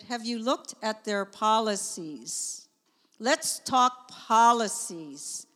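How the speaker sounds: slow, measured suggestion; unhurried and diplomatic; changed, reasonable tone. Retold or imitated. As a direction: retell it as a calm, deliberate invitation. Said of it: "So I changed my tone".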